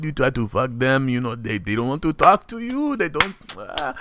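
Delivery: light Haitian accent playing a crude uncle; lightly voiced Haitian uncle giving advice; a hint of a Haitian accent. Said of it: "I'm doing a Haitian accent".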